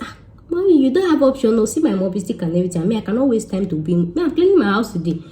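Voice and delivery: high, eager begging, mommy to landlady; high pleading protest. Retold or imitated. Tenant pleading with the landlady, high and eager. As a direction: plead with her brightly to keep the house.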